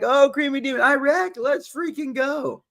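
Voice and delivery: high, hyped call, slowing at the end; excited hype. Real, not acted. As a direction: cheer them on. Excited reply to viewer.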